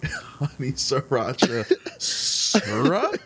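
slow, amazed question; surprised. Retold or imitated. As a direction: say honey sriracha syrup in disbelief. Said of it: "never seen someone more surprised".

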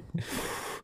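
soft, voiceless puff of breath; imitated heavy exhale. Traveler hearing the manager's terms, quiet heavy exhale. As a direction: blow out a long quiet breath. Wordless reaction to manager's warning.

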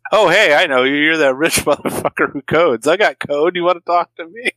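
brash mock flirt; flirty Tina. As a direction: Tina hitting on the rich coder. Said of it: "Tina's there going like".

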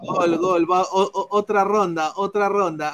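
excited, quick shootout call; breakneck goal commentary. Real, not acted. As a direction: call the shootout like live play-by-play. Penalty shootout live reaction.

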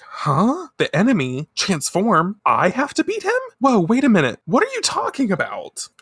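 high-pitched incredulous questions; acted bewilderment. Girl told to fight the enemy, high bewildered protest.

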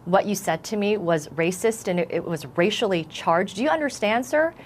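retelling a firm, stern challenge; a moderately stern retold rebuke. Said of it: "in a really stern voice".

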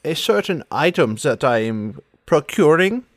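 put-on theatrical accented villainess; Sans Serif, cagey. Hinting at an item she wants, cagey accented voice. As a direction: hesitate coyly, in character accent.

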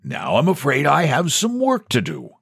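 a hint of smooth, silky politeness; mildly purring. A narrator's reading. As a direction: purr it as a polite send-off. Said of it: "The president rose and purred".

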